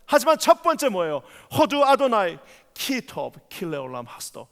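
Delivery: impassioned sermon, rising to ringing peaks; preaching. Acted. Pastor preaching fervently to the congregation. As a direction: preach it with full fervour to the church.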